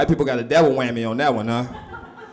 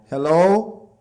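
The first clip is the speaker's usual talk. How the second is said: put-on child on the phone; 2 semitones higher, slower than usual. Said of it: "He answered the phone".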